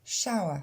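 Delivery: Shower as shawa; Shower with ow glide, no r; English shower. Shown as a demonstration. Teacher models Shower for French learners, clear English sounds. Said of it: "le même son pour la douche".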